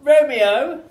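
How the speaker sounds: character voice. Acted. Improv scene character line.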